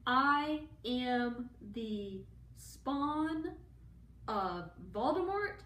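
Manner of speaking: very slow, booming evil declaration; hammed-up sinister proclamation; dramatic villain reveal. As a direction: drag it out like a grand evil unveiling.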